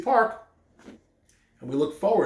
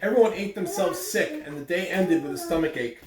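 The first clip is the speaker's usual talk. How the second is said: reading a picture book aloud to the class; even, steady storybook reading voice; story narration. Acted. Teacher reading the story to her students, storytelling voice.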